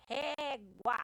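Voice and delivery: "Régua" with a strong, held first "Ré"; stress on first syllable. Shown as a demonstration. Teacher shows two syllables, "Régua" stressed on "Ré". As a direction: lean on "Ré" in "Régua". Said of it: "a mais forte é ré".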